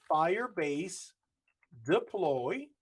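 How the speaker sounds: slow, deliberate dictation of the command; command read out slowly. Shown as a demonstration. Teaching the class to type the command, slow and deliberate. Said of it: "now I will just say".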